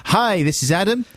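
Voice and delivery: high-pitched, hesitant stage greeting; mocking awkward band introduction. Presenter introducing a band at Camden Crawl, high mock impression. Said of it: "That was your response".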